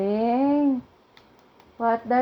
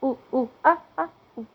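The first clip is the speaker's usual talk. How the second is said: monkey noises; 3 dB quieter, much faster than usual. Shown as a demonstration. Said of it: "what does the monkey say?".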